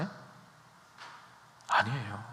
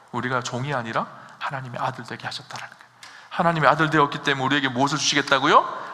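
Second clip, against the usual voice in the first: normal talking voice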